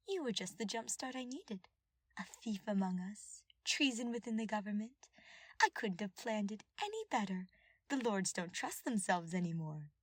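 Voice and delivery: lightly voiced scheming advisor. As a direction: purr it like a gloating schemer. Villain advisor voiced in story.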